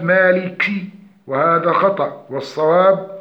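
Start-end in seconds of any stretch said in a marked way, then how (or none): 0.0-0.6 مالك with a forced puff of air on the k; overdone kaf aspiration. Shown as a demonstration. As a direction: overbreathe the k in مالك, as a mistake. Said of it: "والتكلف في إظهار الهمس الكاف". (مالك بتكلف همس الكاف)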